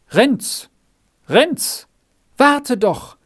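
high, rising calls from behind; calling out loudly. A narrator's reading. Margretli runs up behind Renz, calling out to him. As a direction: call after a friend to make him wait. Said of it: "rief es auf einmal laut hinter ihm her".

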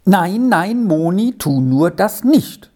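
pleading. Acted. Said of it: "sagte Jörgli jetzt bittend".

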